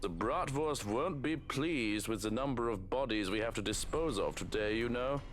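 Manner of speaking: lightly voiced gloating villain; villain's voice. Villain watching things get better, lightly gloating. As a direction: play the villain enjoying this.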